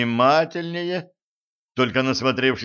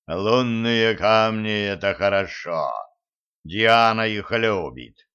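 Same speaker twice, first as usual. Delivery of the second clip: god of war voice; 2 semitones lower than usual. Acted. Mars pleased with moonstones.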